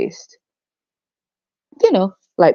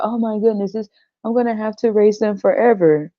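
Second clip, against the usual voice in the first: mock dismay; 5 semitones higher than usual. Mocks parents lamenting lifelong care.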